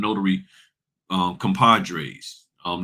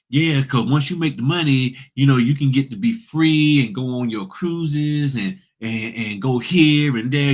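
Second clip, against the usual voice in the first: mocking the trainers; 3 semitones higher than usual. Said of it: "that's how they talk".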